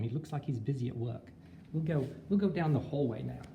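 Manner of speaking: a put-on Australian accent; teacher giving a school tour in a mock Australian accent. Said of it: "How's my accent so far?".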